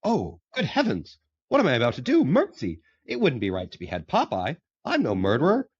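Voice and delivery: a hammed-up gasp of conscience, pitched high; Wimpy voice. Storyteller voicing Wimpy refusing to behead Popeye, fretful and high. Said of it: "he's walking away".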